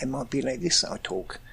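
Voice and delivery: soft everyday Highland Scottish accent. Shown as a demonstration. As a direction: slip into his home Highland accent. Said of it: "sharing your everyday Highland voice".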